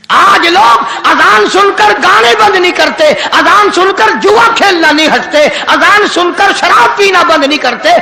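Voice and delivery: driving, repetitive sermon cadence; rebuking preacher. Acted. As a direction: hammer out each charge with rising and falling pitch. Preacher rebukes in rhythmic list. (जोशीली तकरीर)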